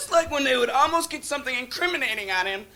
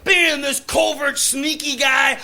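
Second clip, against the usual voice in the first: acted gung-ho outrage. Left-winger cheering on the Oliver North hearing, worked-up. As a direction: rail at him with relish.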